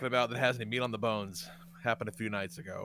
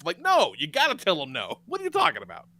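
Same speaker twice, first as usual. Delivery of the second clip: ordinary talk, nothing marked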